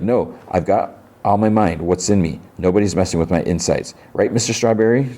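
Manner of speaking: put-on a light childlike voice, talking to her stuffed toy; singsong, as if to a toy; odd little girl. Troubled girl talks to her stuffed toy, childlike and dreamy.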